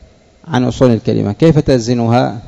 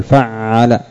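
slow correct pattern; much slower than usual. Shown as a demonstration. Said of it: "أو نقول فعل؟".

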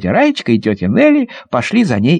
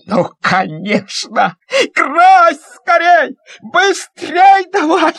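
much higher, stretched urging; eager urging; 14 semitones higher, much slower than usual. Acted. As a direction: hurry him up eagerly. Boy urges painting. (нетерпеливо, высоко)

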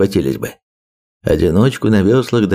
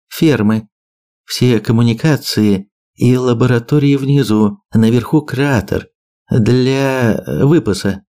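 measured briefing, slightly raised voice; lightly voiced map briefer; 3 semitones higher than usual. Birger lists island sites for his allies, lightly voiced briefing. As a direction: lay out the sites item by item.

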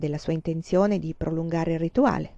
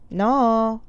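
firm no; 3 semitones higher, 4 dB louder than usual. Acted. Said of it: "con un tono che non ammetteva repliche".

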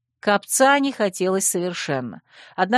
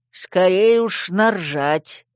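smirking quip; 5 dB louder, much slower than usual. Acted. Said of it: "хмыкнул посох".

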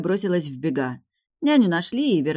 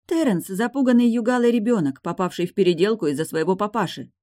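raised, heated reply; loud, higher heated answer; 6 semitones higher, 5 dB louder than usual. A narrator's reading. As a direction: answer back just as loudly. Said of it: "так же громко ответила Эйлин".

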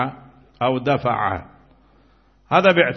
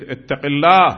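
firm, louder call to fear God; Zaid's firm rebuke; 6 dB louder than usual. Retold or imitated. Zaid rebukes Hisham to his face, firm and louder. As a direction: say it as a bold warning to the ruler. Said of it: "فقال له زيد".

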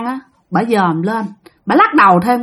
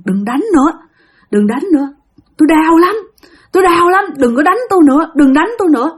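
high, pleading, lightly sobbing spirit; mock crying plea; 5 semitones higher than usual. Spirit begs the shaman to stop striking, mildly tearful. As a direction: beg them to stop the beating. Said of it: "Nó quỵ xuống mà nó khóc".

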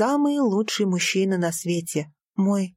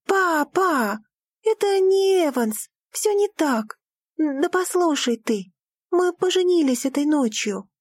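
desperate cry; 8 semitones higher than usual. Acted. Daughter to father, a desperate cry. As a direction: make him finally listen.

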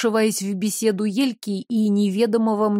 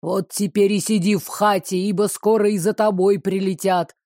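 hissing threat. Acted. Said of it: "прошипел незнакомец".

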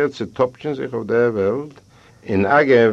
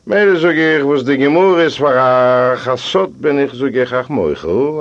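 voiced pleading; 5 semitones higher, 6 dB louder than usual. Narrator voicing his own plea.

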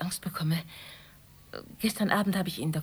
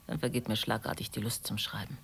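rueful laugh; 6 semitones lower, 5 dB quieter than usual. Acted. Laughs at memory of Umbertino.

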